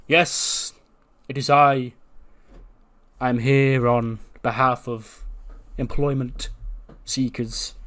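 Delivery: lightly voiced, stately self-introduction; slow, deliberate courtesy with a touch of pomp; a hint of grandly formal servant; formal janitor. Voices the formal janitor Keith Lee.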